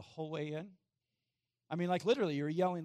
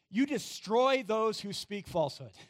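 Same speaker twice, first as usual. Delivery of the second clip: emphatic scripture reading; 5 semitones higher, 7 dB louder, slower than usual. Acted. Preacher reads scripture verse.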